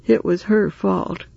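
trembling with self-pity. Acted. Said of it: "in a voice trembling with self-pity".

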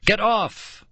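high, panicked shriek. A narrator's reading. Girl landing in the pit, high panicked shriek. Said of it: "Nicole shrieked".

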